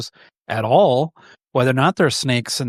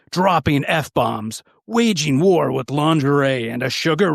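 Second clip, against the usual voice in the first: trailer guy voice. Acted. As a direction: announce it like an epic trailer. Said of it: "my best impression of the trailer guy voice".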